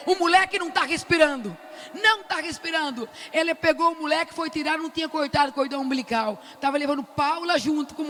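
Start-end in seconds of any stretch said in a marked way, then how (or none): 0.1-3.1 pitched-up, forceful insistence; insistent yell. Retold or imitated. Grandmother to the doctor's face, insistent raised yell. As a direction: jab the words at the doctor. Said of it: "enfiei o dedo na cara dela e falei".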